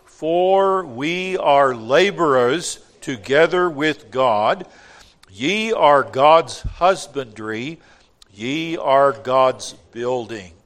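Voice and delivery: many voices in unison. Real, not acted. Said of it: "let's read it aloud together".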